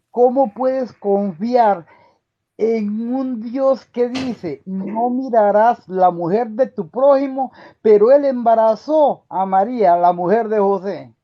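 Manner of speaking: bitter challenge. Real, not acted. Grieving father challenges the atheist host, bitter and loud. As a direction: demand an answer you know can't come.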